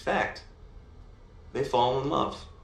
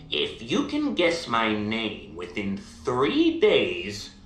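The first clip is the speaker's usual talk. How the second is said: slow, drawn-out imp challenge; imp's bargain; slower than usual. Acted. Imp offering the princess a deal, slow and deliberate. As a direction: lay down the terms slowly, stretching the words.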